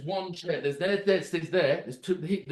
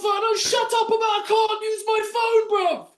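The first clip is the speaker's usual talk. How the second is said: retold shout; 13 semitones higher than usual. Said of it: "retold comeback to guard".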